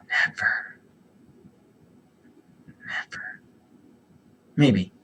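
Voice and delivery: fading whisper; whispered never. Real, not acted. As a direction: breathe it out, dismissive. Whispered repeated refusal.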